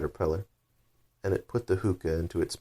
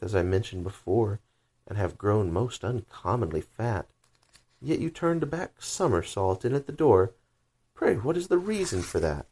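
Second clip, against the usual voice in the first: high questioning youth; 4 semitones higher than usual. Acted. Recites the youth.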